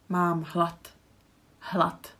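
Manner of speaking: hlad ending in a clear t sound; devoiced final d. Shown as a demonstration. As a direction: say Mám hlad with hlat at the end. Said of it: "So it's d at the end".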